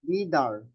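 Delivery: "Leader" as LEE-dar, open final vowel; A-sound ending. Shown as a demonstration. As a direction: end "Leader" on a clear ah sound. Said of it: "ang sounds niya ay A".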